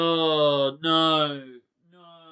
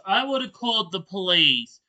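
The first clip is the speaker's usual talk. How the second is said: insistent; 4 dB louder than usual. Real, not acted. Insisting he'd call the police.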